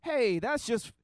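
mocking naive believer. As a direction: ridicule the starry-eyed believer. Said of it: "Christianity gets you thinking".

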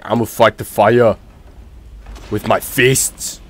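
loud, mocking bravado; mock battle boast. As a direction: boom out a daft fighter's boast, stretching the end. Mocking a companion's fighting bravado.

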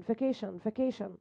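فاكيشن ending in a soft shun sound; model pronunciation. Shown as a demonstration. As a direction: say the tion as shun, fa-kei-shun. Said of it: "بتجيب شن". (نطق فاكيشن بصوت شن)

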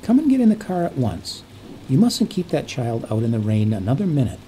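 stern, urgent rebuke to a stranger; sharp. Acted. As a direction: snap the order out with authority. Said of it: "she said sharply".

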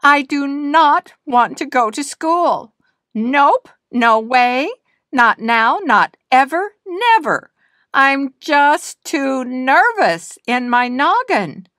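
put-on hurt child wailing she won't go to school. A narrator's reading. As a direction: wail it like a hurt little girl who won't go. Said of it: "Nina wailed".

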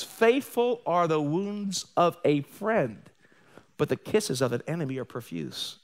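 slow, weighty reading of "Faithful are the wounds of a friend"; solemn scripture reading. Acted. Preacher quoting Proverbs to the church, slow and solemn. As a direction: let the verse land slowly.

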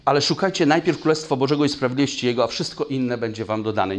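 fast and loud scripture recitation; fast forceful recitation. Shown as a demonstration. Preacher drives the verse home to the church, fast and loud. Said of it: "recites the verse a third time".

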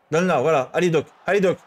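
yelling from the sidelines. Real, not acted. Urging players on, football game.

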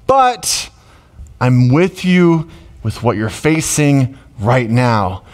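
breezy then tender, like God consoling; God reassuring. Acted. God answers a worried believer, breezy then tender. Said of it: "they're going".

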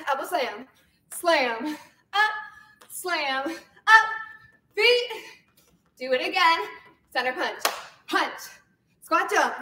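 energetic fitness class cueing; aerobics instructor. Acted. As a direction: call out moves to the beat. Leads workout cueing counts.

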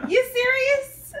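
stunned, stretch it out; real shock at the gift; surprised disbelief. Real, not acted.

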